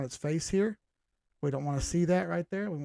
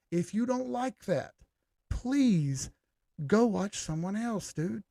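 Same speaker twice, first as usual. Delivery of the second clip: higher and slow, exasperated brush-off; fed-up dismissal; 5 semitones higher, slower than usual. Real, not acted. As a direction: tell them off, slow and pointed. Telling annoyed critics to leave.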